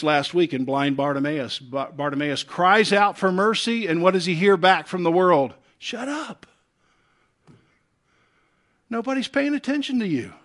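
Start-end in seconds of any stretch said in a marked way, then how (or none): 5.8-10.3 harsh dismissal. Retold or imitated. The world silencing Bartimaeus.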